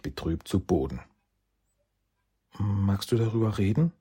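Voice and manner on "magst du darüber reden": loving tone. Acted. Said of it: "in liebevollem Ton".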